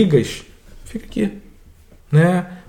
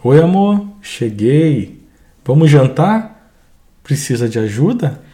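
kind husband; slower than usual. Acted. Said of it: "a segunda cena".

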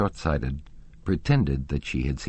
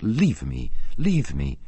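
fierce anger; 4 dB louder, slower than usual. A narrator's reading. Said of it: "in the tone of fierce anger she called out".

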